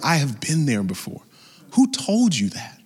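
a hint of a knowing parent, rising on who; mock parent catching a child out. Preacher imitates a parent who has heard it all before, in a knowing scold. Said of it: "you hear the tone".

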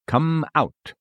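curt call, like calling a dog out of its kennel. Retold or imitated. Jesus calls the spirit out like a dog from a kennel. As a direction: order it out like a cur. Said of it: "as a man might call a dog out of a kennel".

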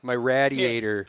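slow mock Philadelphia accent on radiator; Philly accent. Host keeps riffing on his hometown, slow mock Philadelphia accent. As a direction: drag out radiator like a Philadelphia local. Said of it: "I had a really hard Philadelphia accent".

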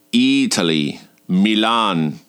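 lightly voiced Italian instructor; instructor's reply. Italian instructor telling student where he is from, lightly imitated. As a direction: answer with a hint of the smooth instructor. Acting Sebastiano's reply to her question.

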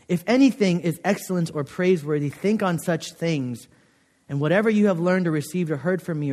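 measured, lightly solemn reading of scripture. Acted. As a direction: chaplain reading Philippians to the chapel, lightly solemn. Reads scripture aloud.

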